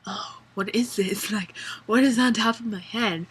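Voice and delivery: breathy mocking whisper of Bella; imitating Bella in a whisper. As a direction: whisper it as a confused heroine. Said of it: "and then she's like".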